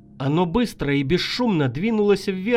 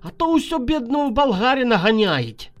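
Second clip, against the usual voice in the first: put-on Ukrainian accent. Дончев voiced with Ukrainian-Bulgarian speech.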